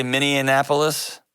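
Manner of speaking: Minneapolis with an extra N, Minnie-annapolis; mispronounced place name. Shown as a demonstration. Host checks his own slip, mispronounced Minneapolis. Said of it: "Did I say Minneapolis?".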